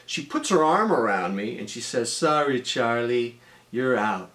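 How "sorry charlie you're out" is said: ad catchphrase quote. Retold or imitated. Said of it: "she quotes something from a, uh, Starfish tuna commercial".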